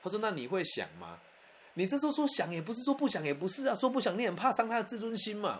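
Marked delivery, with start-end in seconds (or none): 1.8-5.6 exasperated high pitch. Real, not acted. Awkward dilemma told to audience.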